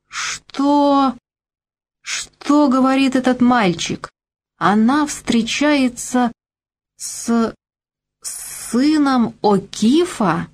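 заплетающимся языком, выше и медленно; пьяно и раздражённо тянет слова; пьяный раздражённый голос. Acted. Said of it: "говорил заплетающимся языком, но громко и раздражённо". (лёгкий намёк на пьяного старика)

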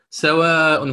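سواء with its long vowel somewhat stretched; سواء with a lengthened alif; ishba madd. Shown as a demonstration. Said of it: "بالإشباع".

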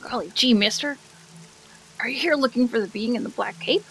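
lightly voiced eager kid; a hint of golly-gee innocence; wholesome 1950s kid. GM voices Kaleran NPC.

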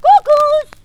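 loud, high calling; ruft. A narrator's reading. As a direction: call out playfully. Hans ruft in den Wald.

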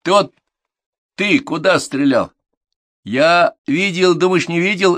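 high, loud, drawn-out grilling; angry accusation. A narrator's reading. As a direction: round on a guilty pupil. Instructor accuses a pupil.

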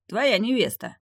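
shrill jump up high in pitch; voice going too high. Acted. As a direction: voice shoots up high, straining. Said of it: "Голос огненного демона на последней фразе стал слишком высоким".

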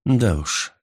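ordinary delivery

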